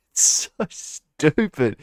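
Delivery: slow, put-on scornful voice. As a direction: drag it out in disdain. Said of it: "and I'm like".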